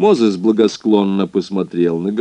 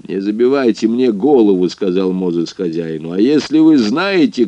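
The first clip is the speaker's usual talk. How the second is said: loud threatening growl of a boss; barking; 3 semitones higher, 3 dB louder than usual. Acted. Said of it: "рявкнул он". (громкий угрожающий рык)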